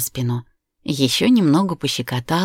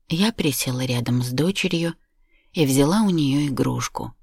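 usual speaking voice

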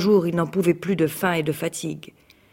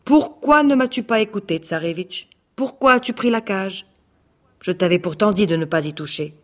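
displeased scolding. Acted. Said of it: "Le loup n'était pas content".

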